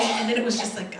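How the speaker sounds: ordinary talk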